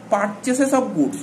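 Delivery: very slow, each word spaced out; slow dictation. Shown as a demonstration. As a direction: dictate the example for them to write. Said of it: "dictating example slowly". (ধীরে ধীরে শ্রুতলিপি)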